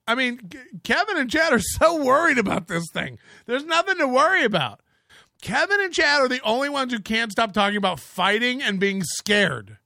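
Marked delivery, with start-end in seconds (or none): none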